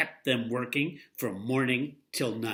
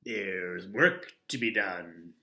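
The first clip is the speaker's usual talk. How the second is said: frowning boss; 4 semitones lower, slower than usual. Acted. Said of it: "he said with a frown".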